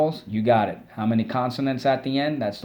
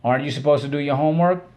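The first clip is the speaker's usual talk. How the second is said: a parent asking; 3 semitones higher, faster than usual. Retold or imitated. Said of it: "get a little bit of an attitude".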